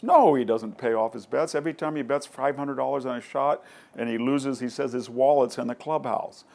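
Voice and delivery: mildly indignant, hitting the first word loud; emphatic retold denial. Golfer complains to the writer about unpaid bets, emphatic. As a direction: act out a worked-up golfer setting someone straight.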